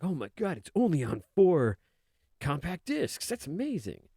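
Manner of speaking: high-pitched, mock-awed exclamation; retold amazement. Player marvelling at a game on four discs, amazed. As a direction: marvel in a high voice, playing up the wonder.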